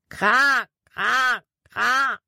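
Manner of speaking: high close cawing, kra kra kra; crow call imitation. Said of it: "Erneut schrie Jordan".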